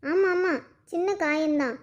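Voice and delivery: slow, scornful agreement; drawn-out mocking agreement; sarcastic echo. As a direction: throw the words back sarcastically. Mother scornfully echoes his reassurance.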